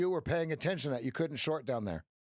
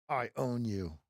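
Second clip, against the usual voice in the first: mock villain line; 4 semitones lower than usual. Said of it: "say that with a straight face".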